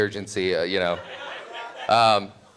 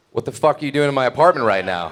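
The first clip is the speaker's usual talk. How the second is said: mock angry demand; 4 semitones higher, 4 dB louder, faster than usual. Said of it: "She's like".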